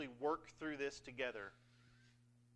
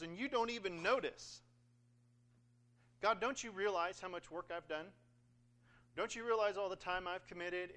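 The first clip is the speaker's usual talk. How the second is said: lightly voiced sorority girl complaint; 3 semitones higher, 4 dB louder than usual. Israelites asking God why he isn't impressed, mock sorority-girl whine. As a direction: protest like a put-out sorority girl. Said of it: "sorority girl voice for some reason this morning".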